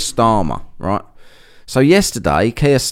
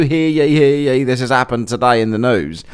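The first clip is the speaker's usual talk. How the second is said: town crier. Retold or imitated. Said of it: "you can't just do".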